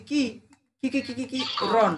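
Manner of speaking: stuttered film-hero "কি", repeated quickly; Shah Rukh Khan. Retold or imitated. Teacher showing the overdone syllable, mimicked stammer. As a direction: imitate a stammer on "কি". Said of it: "কোন শব্দটাকে সে বেশি করছে".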